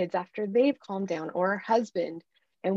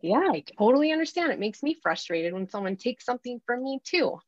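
high, quick "yeah" easing into understanding; lively acted empathy, starting high; empathetic; 3 semitones higher than usual. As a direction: validate the child's frustration emphatically. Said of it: "You're showing them empathy".

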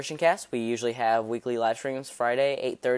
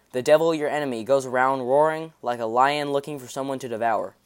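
scripture reading. Acted. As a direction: read the verse out to the congregation. Reads scripture aloud.

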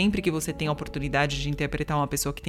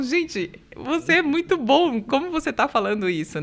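mock amazed audience; 8 semitones higher than usual. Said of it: "porque falavam".

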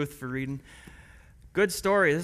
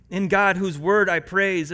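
louder refrain; 3 semitones higher, 7 dB louder than usual. Acted. Pastor building the psalm refrain, louder and fervent. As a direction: lift the repeated line with fervour. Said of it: "Listen as I read Psalm".

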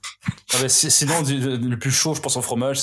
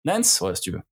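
imitated clerk; 3 dB quieter than usual. Clerk at reception trying to say her name, puzzled. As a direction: mimic a clerk sounding out the name. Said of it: "essaie de le prononcer".

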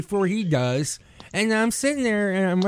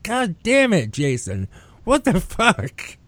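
mock blow-up; slower than usual. Host showing a friend the outburst he avoided, exasperated. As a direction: act out the explosion you held back. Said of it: "I didn't wanna explode at you".

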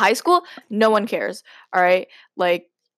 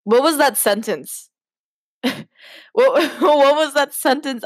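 laughing disbelief; 5 semitones higher than usual. Real, not acted. Laughing at own writing.

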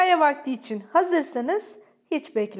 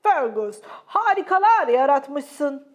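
smiling praise; 2 semitones higher, 9 dB louder, slower than usual. A narrator's reading. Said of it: "dedi baba tilki ona gülümseyerek".

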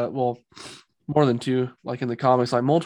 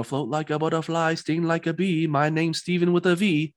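a light, hammed-up British accent, slightly higher; mock British accent; 4 semitones higher than usual. Quoting Steven's Muhammad Ali line to his cohost, in a mock British accent. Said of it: "was that your best British accent?".

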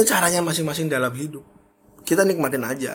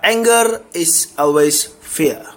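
slow weighty statement; 3 semitones higher, 6 dB louder, much slower than usual. Acted. Announces a key point.

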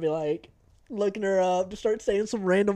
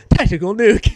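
game announcer voice; 3 semitones higher, 13 dB louder, slower than usual. Retold or imitated. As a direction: call it like the game's voice. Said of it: "You just hear".

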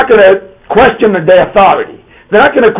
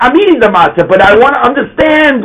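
put-on child asking properly; 5 semitones higher than usual. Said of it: "Instead, we say".

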